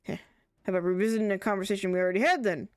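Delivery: lightly acted character dialogue; gently performed NPC voices; voicing game characters. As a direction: read the quest lines with a little theatre.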